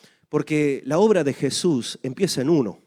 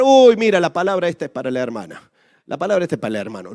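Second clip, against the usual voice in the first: mocking gossip; 6 dB louder, faster than usual. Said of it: "son los que no tienen problema de mirar".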